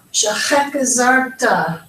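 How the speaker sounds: slow SHEHEK ZARTA, throaty "kh" starting the second syllable; guttural ch. Shown as a demonstration. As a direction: say Shehek zarta slowly with a scraped "she-KHEK". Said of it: "Here's that same sound as in the word chai".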